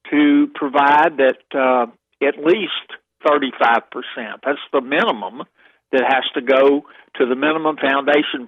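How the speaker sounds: talking through a swollen jaw. Real, not acted. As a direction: speak as if your jaw is swollen after dental surgery. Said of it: "my jaw is swollen from, from, uh, dental surgery".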